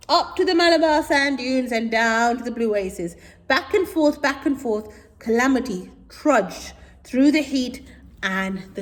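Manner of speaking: put-on lively read-aloud for children; story reading. A narrator's reading. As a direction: read it out brightly to kids.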